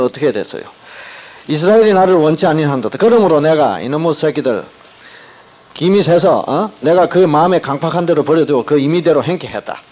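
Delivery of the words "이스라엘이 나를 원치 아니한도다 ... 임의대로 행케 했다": harsh wrong reading. Shown as a demonstration. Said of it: "이렇게 읽어버리면은 안 됩니다".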